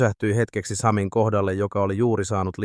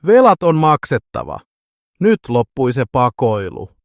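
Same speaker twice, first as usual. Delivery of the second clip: much louder, higher bellowed threat; roaring; 3 semitones higher, 7 dB louder than usual. Acted. Debt collector roaring at Sami, bellowing threat. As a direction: roar the debt demand at him.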